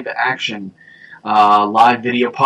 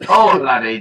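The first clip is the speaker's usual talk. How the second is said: lightly echoed Scots; playful put-on Scottish; mock Scottish accent; 3 semitones higher, 4 dB louder than usual. Echoing a friend's laddie, mock Scots.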